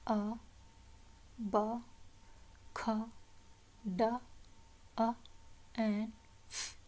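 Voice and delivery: "a, ba, kha, da" as separate short letter sounds; phonics sounds. Shown as a demonstration. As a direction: sound out "a, ba, kha, da", long pause after each. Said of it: "we will learn about sound". ("a, ba, kha, da" अलग-अलग ध्वनियों में)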